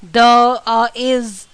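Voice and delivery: "the" and "is" each fully stressed; individually spoken "the", "is" with full stress. Shown as a demonstration. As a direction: say "the" and "is" as separate, weighted words. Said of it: "इन पे पूरा stress दे रहे हैं".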